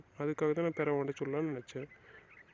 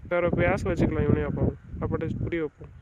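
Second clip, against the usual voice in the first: raised pleading; 4 dB louder than usual. Acted. Husband argues wife shouldn't be angry.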